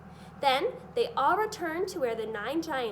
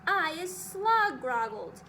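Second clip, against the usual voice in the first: squawked; 4 semitones higher, 5 dB louder, slower than usual. A narrator's reading. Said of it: "squawked the gizzard".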